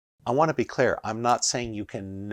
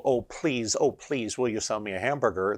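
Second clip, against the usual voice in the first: mock pleading. Customer at the drive-thru, mock pleading for a hamburger. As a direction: beg for a burger like it's a favor. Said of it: "Why are you begging".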